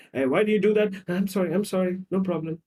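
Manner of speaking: put-on smooth over a row as a people-pleasing child; acted appeasing, easing down in volume; anxious placating. Acted quarrel, boy placating parents.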